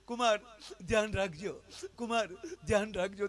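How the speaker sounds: imitating a tearful farewell plea; mock tearful plea. Mother-in-law tearfully begs son-in-law at farewell. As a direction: plead through mock tears. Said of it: "રડતા રડતા જ બોલતા હતા".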